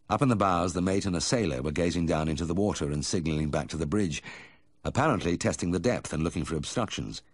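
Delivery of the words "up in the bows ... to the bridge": ordinary delivery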